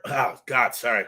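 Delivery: normal talking voice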